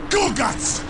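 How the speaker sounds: first sharp call after someone leaving. Acted. Warlord calls after the deserting orc, indignant. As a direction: call the name in disbelief.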